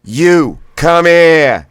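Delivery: "come here" with Boston "here", loud and high; Boston blast. Shown as a demonstration. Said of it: "the here is like fire. That's Bostonian".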